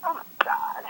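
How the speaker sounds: a hushed, shocked whisper; whispered oh my God; whispered aside. Real, not acted. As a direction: breathe it out under the breath.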